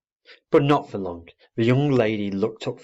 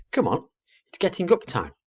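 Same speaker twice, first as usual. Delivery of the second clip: higher, coaxing little owlet; a hint of an eager owlet; 10 semitones higher than usual. A narrator's reading. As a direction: chivvy Daddy out of bed. Owlet nudging father.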